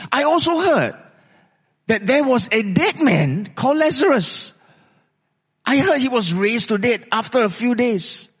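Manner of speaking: lightly acted eager conviction; lame man's thoughts. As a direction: voice a lame man building up his hope. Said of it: "would have gone through this man's mind".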